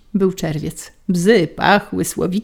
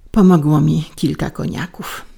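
ordinary delivery

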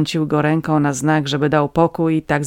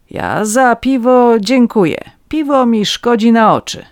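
louder, eager voice of a cheap legal fixer; scheming petty scribe; 6 semitones higher, 4 dB louder than usual. A narrator's reading. Red-nosed man persuades the farmers, eager and louder. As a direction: sell the plan, pressing and sly.

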